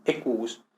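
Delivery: "Equus" with two U's run together; E-kuus for "Equus"; double U. Shown as a demonstration. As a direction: lengthen the U of "Equus". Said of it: "como dos U's".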